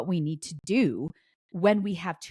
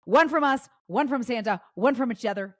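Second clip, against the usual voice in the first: excited; 6 semitones higher than usual. Retold or imitated. Sister excitedly lists her plan.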